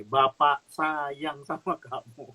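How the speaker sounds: slow, gentle fatherly words; tender reassurance. Retold or imitated. Pastor pats his shoulder and comforts him, slow and gentle. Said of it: "Dia bilang gini".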